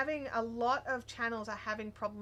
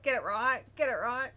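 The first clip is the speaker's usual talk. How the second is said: louder mock correcting; fussy insistence; 6 dB louder than usual. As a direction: imitate a stickler insisting, punching each repeat. Acting out fussy locals correcting people.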